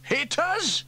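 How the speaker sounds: very high, loud panic; alarmed shout. Acted. Firemen realise the extinguisher will hit them, alarmed. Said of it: "they all shouted".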